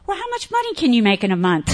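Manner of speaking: fast, brisk businesslike question; a hint of a brisk businesswoman; stern business lady. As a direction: cut straight to the numbers. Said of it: "she goes".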